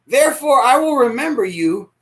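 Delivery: loud, high scripture cry; arguing with God. Real, not acted. Preacher arguing with God, reading the verse loud. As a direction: hurl the verse back at God.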